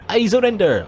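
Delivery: hammed-up French surrender; squeaky French surrender. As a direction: yelp it like a cartoon Frenchman. Diamond France gives up.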